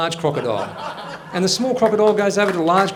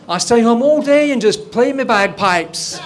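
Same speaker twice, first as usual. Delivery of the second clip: laughing punchline; 5 semitones higher, 6 dB louder, slower than usual. Acted. Punchline of Hamish joke.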